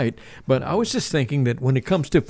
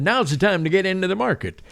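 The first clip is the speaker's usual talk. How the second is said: client quote; 5 semitones higher than usual. Retold or imitated. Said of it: "maybe they said".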